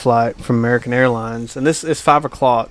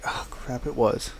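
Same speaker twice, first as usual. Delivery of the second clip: whispered oh crap; 10 dB quieter, slower than usual. Retold or imitated. Realizes he missed his name.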